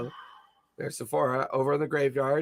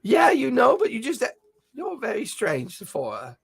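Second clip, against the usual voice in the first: put-on old man voice; 9 semitones higher than usual. Grumbles defends himself.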